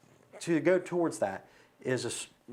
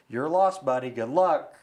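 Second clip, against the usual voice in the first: louder, lightly voiced brush-off; mock send-off to a stubborn swimmer; dismissive boater; 7 dB louder than usual. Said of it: "guy in the boat".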